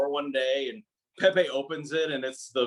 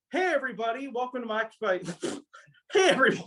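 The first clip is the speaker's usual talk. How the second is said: youtuber intro; 7 semitones higher, much faster than usual. Shown as a demonstration. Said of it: "I'll do a take two on that".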